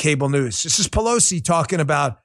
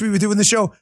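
ordinary talk

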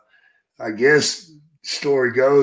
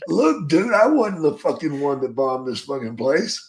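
half-joking angry comeback; mock angry retort; 3 semitones higher, 4 dB louder than usual. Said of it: "And I'm like".

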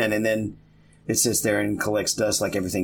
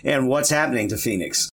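teacher voice; 4 semitones higher than usual. Acted. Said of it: "with my teacher voice now".

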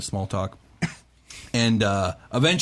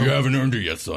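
put-on stern old mentor; 4 semitones higher, faster than usual. Minotaur scolds player.

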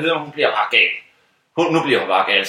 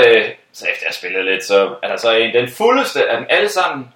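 ordinary delivery

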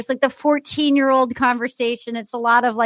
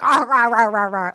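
mock-smug nonsense chant; imitating a smug Harvard type; smug Harvard dude; 3 semitones lower than usual. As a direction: rattle off smug rah-rah noises. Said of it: "as a smug Harvard dude".

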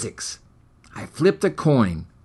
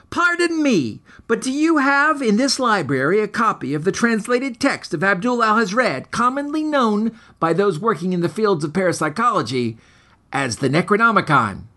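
higher, eager, over-formal asking; overly polite request; 6 semitones higher than usual. Acted. Hero asks the bored librarian for a forbidden book, higher and eager. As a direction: lay on the courtesy like a nervous scholar.

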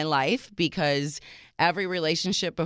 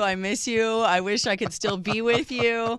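mock caller; 5 semitones higher than usual. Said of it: "call up and say".

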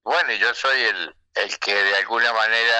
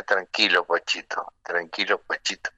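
soft, fading murmur that gets quieter each time; calm a nervous friend gently, letting it die away; soothing; 3 semitones lower, 3 dB quieter than usual. Retold or imitated. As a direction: Mercedes reassuring Pocho backstage. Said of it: "me empezó a acariciar la espalda".

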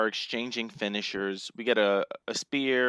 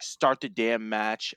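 slow, bad Arnold accent; a badly faked Arnold accent, dragged out; 2 semitones lower, slower than usual. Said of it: "That's a terrible accent".

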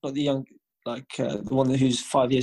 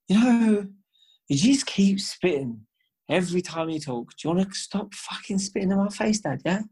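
drunk brother mocking dad; 5 semitones higher than usual.

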